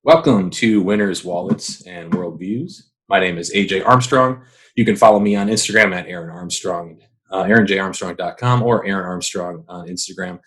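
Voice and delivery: panting between phrases after a run; talking while still winded; out of breath. Real, not acted. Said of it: "I'm out of breath".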